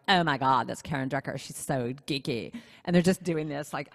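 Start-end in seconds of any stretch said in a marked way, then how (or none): 0.1-2.5 mock cool-girl scorn, trailing lower; eye-rolling disdain. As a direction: imitate snooty schoolgirls, dragging out the last words. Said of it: "rolling their eyes and going".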